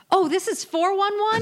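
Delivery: high-pitched feigned innocence; mock clueless caller. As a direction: play dumb in a high put-on voice. Acts out Rose's feigned mix-up.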